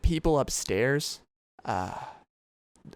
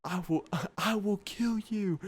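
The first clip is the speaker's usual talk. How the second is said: mock angry neighbor; 7 semitones higher, slower than usual. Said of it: "We heard".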